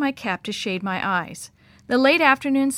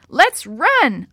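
screech; 4 semitones higher, 7 dB louder than usual. A narrator's reading. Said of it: "I screeched over the howl".

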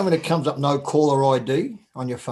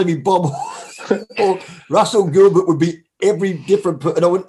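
ordinary talk, nothing marked

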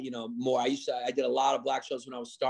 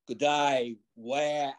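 put-on Australian accent; much slower than usual. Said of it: "the Australian accent".

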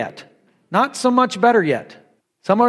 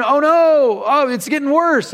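higher-pitched imagined panic; mock alarm; 5 semitones higher than usual. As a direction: lightly play a dismayed father. Imagined father panicking at the convulsion.

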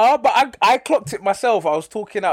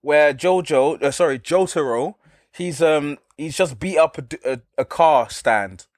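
unimpressed; 2 semitones lower than usual. Real, not acted. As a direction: drag it out, totally unimpressed. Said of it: "You sound so unimpressed".

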